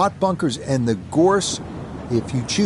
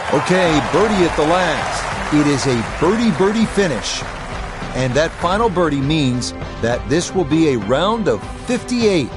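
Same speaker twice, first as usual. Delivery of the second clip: excited; 3 semitones higher than usual. Real, not acted. Excited call of final birdie.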